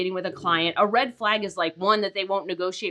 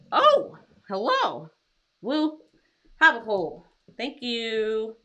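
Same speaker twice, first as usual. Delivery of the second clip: pet talk; slower than usual. Real, not acted. Greeting pet.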